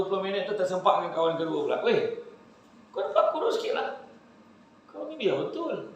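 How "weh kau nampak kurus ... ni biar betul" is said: very high exaggerated amazement; squeaky mock astonishment; teasing friend. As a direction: act amazed at how thin he looks. Second friend saying he's thin.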